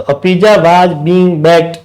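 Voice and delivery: very slow, each word separate; slow dictation. Shown as a demonstration. Teacher reading the passive sentence aloud to class, very slow. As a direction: read the finished sentence as if students are copying it. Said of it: "teacher reads the answer sentence".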